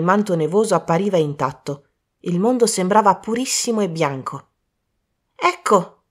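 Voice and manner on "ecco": high, breathless exclamation. Acted. Colin pointing at the body, out of breath. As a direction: gasp it out, panting. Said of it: "disse Colin ansante".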